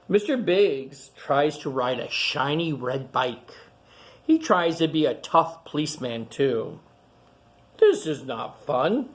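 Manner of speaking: clear, lively picture-book reading voice; reading to children. Acted. Reading a picture book aloud to young kids, storytelling. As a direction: read it out to the kids gathered round.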